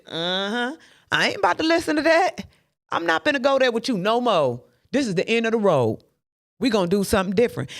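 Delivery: a hint of a defiant dismissal; refusing the voice. Shown as a demonstration. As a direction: shut the tempter down. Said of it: "It, it's just like this".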